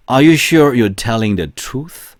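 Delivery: very slow, "truth" lifted at the end; slow question, pitch rising on "truth"; rising question tune. Shown as a demonstration. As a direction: let the question climb at its close. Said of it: "끝을 다 올리면서 발음을 해야겠죠?".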